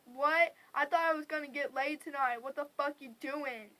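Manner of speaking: loud, disbelieving retold complaint; indignant protest. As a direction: protest loudly, starting on a punched question.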